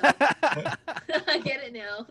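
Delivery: real belly laugh through the words; laughing hard. Real, not acted. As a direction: crack up loudly as you say it. Finally gets the joke, cracks up.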